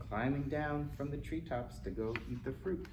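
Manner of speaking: plain reading voice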